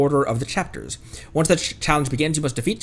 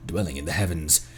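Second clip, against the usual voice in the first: horror host; 3 semitones higher than usual. Acted. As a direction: spin the tale to a gathered crowd. Storyteller opening a tale to crowd.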